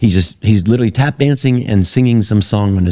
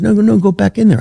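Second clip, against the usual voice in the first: mock insisting director; 13 semitones higher, faster than usual.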